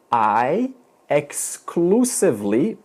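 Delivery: exclusively drawn out slowly and leaned on; stress on exclusively. Shown as a demonstration. Teacher to students, slow emphasis on exclusively. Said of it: "please underline the word exclusively".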